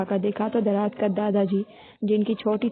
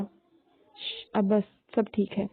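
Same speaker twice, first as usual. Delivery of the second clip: calm her down gently, hushing first. Acted. Husband soothing his crying young wife, tenderly. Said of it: "नरमी से बोला".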